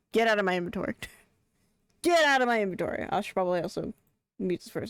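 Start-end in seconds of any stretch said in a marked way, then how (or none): 2.0-3.1 quicker, higher mock-annoyed command; insistent order. Streamer ordering an item out of the inventory, insistent. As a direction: push it out impatiently. Repeats the order more forcefully.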